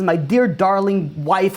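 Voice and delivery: slow, syrupy pet-name greeting; sweet loving address. Pretend. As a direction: stretch out the endearment lovingly. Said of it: "he says".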